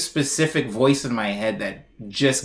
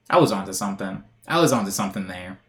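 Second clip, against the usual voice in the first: musing approval; 5 semitones lower than usual. Retold or imitated. Imagined future self approving old music.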